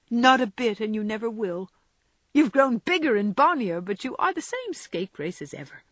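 high, emphatic, fond retort; teasing Jo. Acted. Jo's voice, teasing Laurie.

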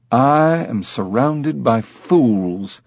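slow, haughty lament; exasperated parrot. Acted. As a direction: draw it out in disdain for everyone. Parrot despairing of the humans.

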